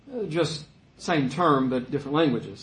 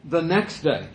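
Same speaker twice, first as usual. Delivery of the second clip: slower, laughing through the words; amused at John's repeated phrasing, read it with a laugh; chuckling. Real, not acted. Preacher rereading the verse, chuckling at John's style. Rereads after joking about John.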